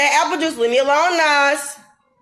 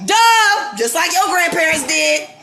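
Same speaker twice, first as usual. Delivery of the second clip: scornful duh; 3 semitones higher, slower than usual. Real, not acted. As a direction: sneer it like it's obvious. Mocking the ancestry denial.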